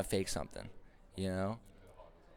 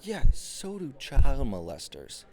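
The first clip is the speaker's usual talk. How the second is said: slow, louder, higher punchline; comic retort; 6 semitones higher, 10 dB louder, slower than usual. Acted. Punchline snapping back at the date's answer, slow and loud. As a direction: land the joke with a jab.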